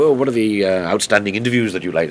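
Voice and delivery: put-on a half-hearted Welsh accent, admittedly poor; mock-quote the Welsh presenter in a failed Welsh lilt; a barely-there Welsh accent quoting the quizmaster; attempted Welsh accent. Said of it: "I can't do a Welsh accent very well".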